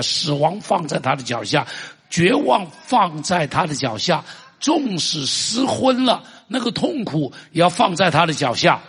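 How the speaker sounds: preacher naming griefs laid at his feet; building litany. Real, not acted. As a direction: pile it up to a peak.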